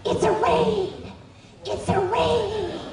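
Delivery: high, drawn-out raid call; called-out raid warning. Retold or imitated. Agents announcing a raid as they burst in, called out high. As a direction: call it out high, stretching the last word.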